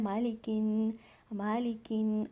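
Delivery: मालिकिन with a nasal न; ghunna. Shown as a demonstration. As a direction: hum the न of मालिकिन. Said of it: "गुन्ना के साथ पढ़ना है".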